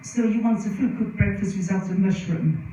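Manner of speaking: lightly imitated French accent; a hint of French accent. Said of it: "in his very French accent".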